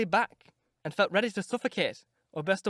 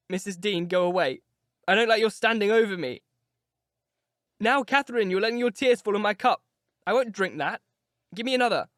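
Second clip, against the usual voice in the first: petulant Linton; 3 semitones higher, 5 dB louder than usual. Acted. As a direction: whine and order them about. Linton whines at them.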